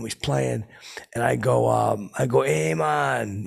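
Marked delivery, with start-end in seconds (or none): 2.4-3.4 higher, drawn-out hail; stretched, raised-pitch "hey, man"; attention-getting call. Retold or imitated. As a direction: call over to get his attention. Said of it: "I get his attention".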